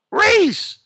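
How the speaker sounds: loud high yell of a name; shouting a name. Retold or imitated. Stranger yelling the name at his back, loud and high. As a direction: yell it so he turns round. Calling out louder.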